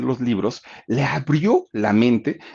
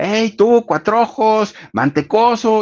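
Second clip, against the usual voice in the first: put-on, very high, loud, drawn-out schoolyard jeering taunt; 9 semitones higher, 5 dB louder than usual. Storyteller acting out three boys taunting a child, imitating kids yelling taunts. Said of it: "le empiezan a gritar".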